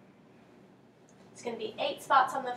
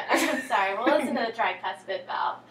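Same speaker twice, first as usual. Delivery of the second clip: laughing; 7 dB louder than usual. Real, not acted. Laughs after stumbling on word.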